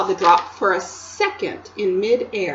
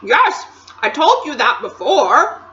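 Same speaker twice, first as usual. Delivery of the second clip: mouth full; 6 semitones higher, 9 dB louder than usual. A narrator's reading. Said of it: "with his mouth full of Turkish delight".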